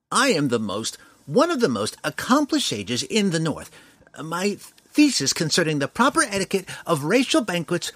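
boastful dwarf lecturing; pompous dwarf sage. A narrator's reading. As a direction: puff up like a self-important scholar.

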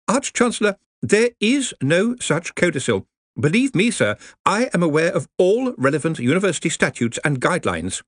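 anxious junior wizard, careful; nervous young wizard. Acted. Ponder contradicts Ridcully.

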